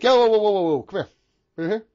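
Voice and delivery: exasperated dad scolding, building to a yell; mock yelling dad. Dad confronting kid over Robux spending, mock angry yelling. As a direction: start by calling the kid over, end indignant. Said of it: "And he's yelling at".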